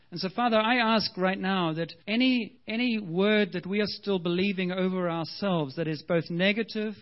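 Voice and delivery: fervent prayer. Acted. Prays over the congregation.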